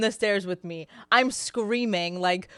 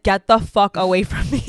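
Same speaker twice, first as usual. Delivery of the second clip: louder, forceful retold telling-off; retold yell; 6 dB louder than usual. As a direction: push him off with your voice. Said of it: "I start yelling at him back".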